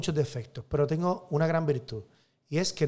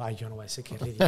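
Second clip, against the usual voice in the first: risa avergonzada; 5 semitones lower, faster than usual. Retold or imitated. Cura recuerda su vergüenza riendo.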